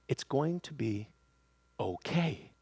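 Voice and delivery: soft, reassuring near-whisper to the spirit; gentle whisper. Acted. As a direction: say it softly, slowly, like God whispering inside. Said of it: "whisper to our spirits".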